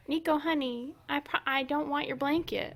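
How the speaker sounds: high, loud coaxing; pet talk. Real, not acted. Owner reassuring dog Nico about blanket, high pet talk.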